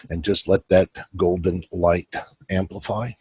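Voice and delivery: unhurried meditation guide with long pauses; calm guiding voice, leaving room to breathe; guided meditation. Acted. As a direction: lead them gently through a breathing visualization.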